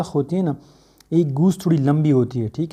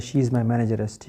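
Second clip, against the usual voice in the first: slow model sentence; 3 semitones lower, 3 dB quieter, much slower than usual. Shown as a demonstration. Teacher to students, a slow correct model sentence. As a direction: say she is my manageress slowly, word by word, every syllable of manageress clear. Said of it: "आपको English का पता है".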